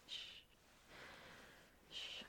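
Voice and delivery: soft repeated shushing; steady shh to soothe someone; rhythmic shushing. Acted. Soothing crying partner.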